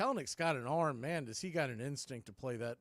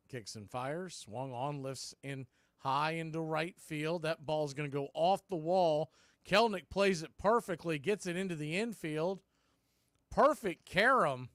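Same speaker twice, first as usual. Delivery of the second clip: live play-by-play. Real, not acted. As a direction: call the hit as it happens.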